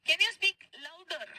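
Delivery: each word drawn out slowly for the class; teacher models the question slowly, word by word; slow model sentence. Shown as a demonstration. Teacher shows students how to ask, said slowly. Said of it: "मतलब".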